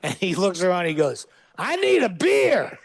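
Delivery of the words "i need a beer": high, dazed, croaky-sounding request; dazed guy. Retold or imitated. The fainted dog actor waking up and asking for a beer, high and dazed. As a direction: come to and ask for a beer. Revived man's first words.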